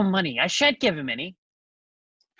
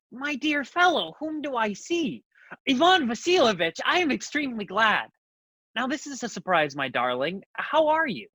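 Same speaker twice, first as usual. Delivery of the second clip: gushing host. Acted. The host greets his visitor.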